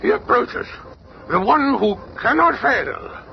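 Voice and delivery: high, hushed, slow; hushed high alien awe; awed alien ruler. Acted. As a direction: breathe it out in awe.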